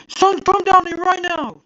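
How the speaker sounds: high, loud angry shout down the stairs; yelling child. Retold or imitated. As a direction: bark the order at the son. Retold father calling son down.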